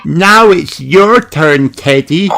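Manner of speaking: put-on high, slow, amazed little girl; wide-eyed piglet showing off; Peppa voice. Peppa to Teddy.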